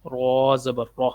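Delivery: "را" with a full, rounded vowel; "را" said heavy, toward "ro"; thick, heavy Ra. Shown as a demonstration. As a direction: thicken the R in "را زبر را". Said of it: "اس کو موٹا پڑھتے ہیں".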